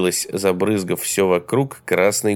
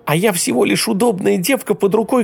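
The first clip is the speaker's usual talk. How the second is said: woman screaming at the man leaving her; shouting; 12 semitones higher than usual. A narrator's reading. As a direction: scream the insults at him. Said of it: "Теперь она кричала".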